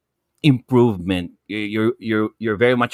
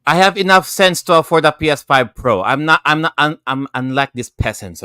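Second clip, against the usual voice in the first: haughty, higher and louder; mock snobbery; 5 semitones higher, 4 dB louder than usual. Panelist boasting he can afford it, mock haughty and loud. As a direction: look down on the peasants in jest.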